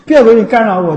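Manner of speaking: mock furious dismissal; scolding. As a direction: snap at the nagging family to get out. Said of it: "就是骂我说".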